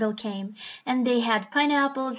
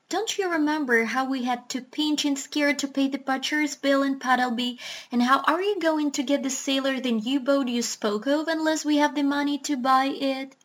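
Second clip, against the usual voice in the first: scolding duck; 2 semitones higher than usual. Acted. Duck character scolding doctor.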